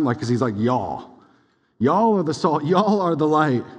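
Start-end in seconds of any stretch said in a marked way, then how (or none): 0.6-2.6 a light southern drawl on "Y'all are the salt"; southern accent. Retold or imitated. Preacher jokingly voicing Jesus in a light southern accent. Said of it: "a southern accent from time to time". 2.6-3.7 lightly voiced Jesus with a southern accent. Preacher jokingly voicing Jesus in a light southern accent. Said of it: "a southern accent from time to time".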